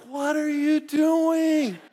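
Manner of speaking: high, slow, loud indignant cry; a director yelling in disbelief; shocked director. Retold or imitated. Director confronting the actor, high slow outraged yell.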